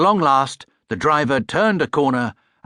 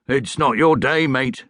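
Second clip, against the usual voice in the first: sympathetic; 3 semitones higher, 3 dB louder, slower than usual. Acted. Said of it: "he said sympathetically".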